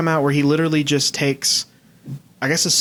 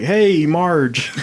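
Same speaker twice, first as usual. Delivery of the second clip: Homer Simpson impression; 3 semitones higher than usual. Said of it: "workshopping a Homer Simpson thing".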